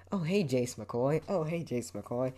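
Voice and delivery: slow, drawn-out mimicked greeting with rising ends; lightly mock an over-eager undercover cop. Mimicking friend who always says his surname, mock greeting. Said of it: "you sound like an undercover cop".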